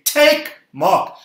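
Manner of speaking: loud, high call for the crowd to echo. Shown as a demonstration. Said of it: "Come on, say it louder".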